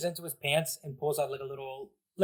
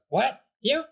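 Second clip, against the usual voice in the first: kitty voice; 10 semitones higher, 6 dB louder than usual. Acted. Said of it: "And then the voice goes".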